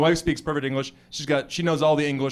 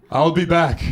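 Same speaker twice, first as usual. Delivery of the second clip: put-on loud, heavy Austrian-accented catchphrase; Arnold Schwarzenegger; 6 dB louder than usual. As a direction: deliver it like an action hero. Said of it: "the kid goes".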